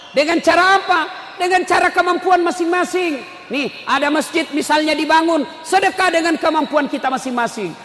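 ringing pulpit questions and lists; impassioned preaching. Real, not acted. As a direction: call out to the congregation forcefully. Preaches at full force.

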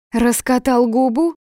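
high, loud mocking question; defiant jeer. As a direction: throw it back cheekily at him. Sonya snaps back in quarrel.

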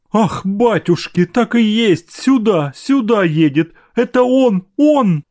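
high, breathless cry of joy; mother crying out that her son arrives; excited cry. A narrator's reading. Mother hearing her son's carriage bell, crying out high. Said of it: "кричала Анна Павловна".

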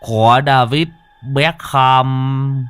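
slow, spaced-out boast; lightly voiced crazed addict; dazed madman.

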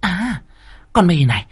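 a cruel first wife cornering the maid; menacing mistress. A narrator's reading. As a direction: draw out the menace before striking.

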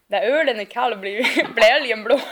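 slow Norrland dialect, breaking into laughter; cosy Norrland accent. Acted. Teasing a co-host about dialects, cosy Norrland accent. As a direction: play a cosy northerner with a laugh creeping in. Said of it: "mysig norrlänning som bara".

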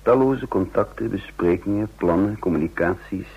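measured, reflective storytelling voice; calm first-person narrator; story narration. A narrator's reading. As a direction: tell it looking back, unhurried. Narration summing up next days.

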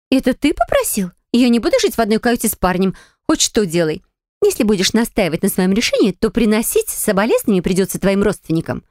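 a hint of a spoiled girl, indignant. Indignant girl neighbour voiced.

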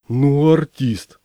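slow, drawn-out admiration; восхищение. A narrator's reading. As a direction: marvel at him, stretching the words and raising the pitch. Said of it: "восхитился Миша". (восхищённо, протяжно)

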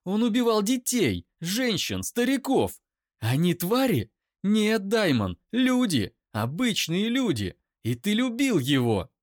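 high, loud, near-screaming rage; screaming accusation at the brother's defender; furious scream. Acted. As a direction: hurls every word at him. Eira screaming at Daimon.

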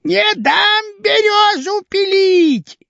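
put-on very high, slow shrieking old woman; a little old lady screaming to save her birch; high, stretched shrill cry of a tiny old woman; old woman shouting. A narrator's reading. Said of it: "которая кричала".

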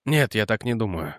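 low, soft and gentle; gently. Acted. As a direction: softly contradict. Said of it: "мягко сказал Реджи". (мягко)

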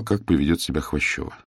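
ordinary delivery

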